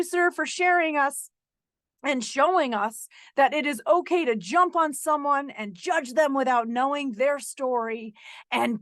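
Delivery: mock-grateful speech with emphatic stresses; imagined sarcastic public service announcement; sarcastic thanks. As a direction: lay on the sarcastic gratitude, thanking a meddling stranger. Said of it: "playing into it with sarcasm".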